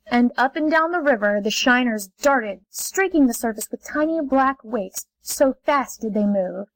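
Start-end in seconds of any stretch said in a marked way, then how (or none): none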